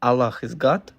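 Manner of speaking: "Allah is God?" with GOD lifting as a question; unsure, questioning. Real, not acted. Guest answering whether he is Muslim, unsure, as a question. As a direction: state it unsurely, rising on "God". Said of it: "it sounded like a question".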